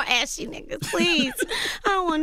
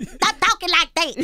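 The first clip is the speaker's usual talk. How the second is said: laughing mimic; 6 semitones higher, 4 dB louder than usual. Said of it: "And I was like".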